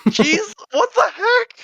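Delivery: high, loud, drawn-out disbelief; real astonishment. Real, not acted. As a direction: exclaim it way up high, stretching the words. Astonished by sixty manga volumes.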